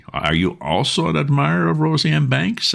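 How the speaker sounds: put-on beaming old peer; uncle beaming. A narrator's reading. Uncle asking the wife about Rosie M. Banks, beaming.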